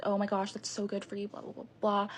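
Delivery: mock supportive gushing. Mimics friend's fake supportive reply.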